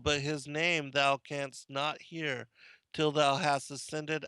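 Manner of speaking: deliberate, declamatory reading of ancient holy text; measured recital with emphatic phrase openings; solemn scripture reading. Acted. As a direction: read it out like scripture to a congregation. Reads Ascension of Isaiah.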